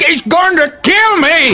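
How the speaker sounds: panicked cry. Acted. Terrified man begging for hiding.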